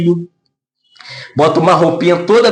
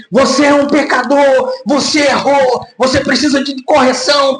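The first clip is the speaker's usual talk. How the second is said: a mild mock scolding, raised; harsh rebuke; 5 semitones higher than usual. Preacher mocks a harsh accusing rebuke of Pedro. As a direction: scold him as a sinner, pushing harder. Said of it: "não foi assim".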